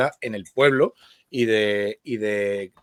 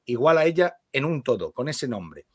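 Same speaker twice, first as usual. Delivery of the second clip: measured literary read-aloud; lectura literaria. Acted. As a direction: read the story aloud with care, phrase by phrase. Lee en voz alta. (lectura literaria en voz alta)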